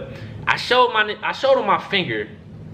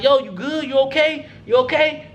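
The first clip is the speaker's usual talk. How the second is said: higher-pitched imitation of a concerned coach; quick repeated check, pitched up; retold worried check; 7 semitones higher than usual. Head coach looking at injured player, retold concern.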